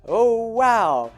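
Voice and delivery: surprised yelp, high and loud; shocked squeak; startled cry. Retold or imitated. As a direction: jump with fright at the gun. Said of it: "And she's like".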